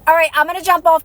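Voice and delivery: breathless after talking; winded, short on air; out of breath. Real, not acted. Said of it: "'cause I'm out of breath".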